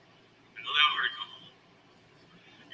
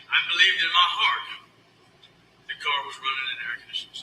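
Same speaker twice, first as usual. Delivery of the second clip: emotional raised voice; 7 semitones higher than usual. Real, not acted. Emotional plea to judge.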